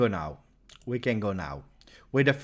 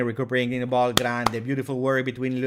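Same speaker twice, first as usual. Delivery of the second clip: ordinary delivery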